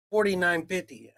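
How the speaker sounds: flat, matter-of-fact cashier quoting the total; just read off the total like a bored cashier; cashier's flat price. Retold or imitated. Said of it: "and the girl goes".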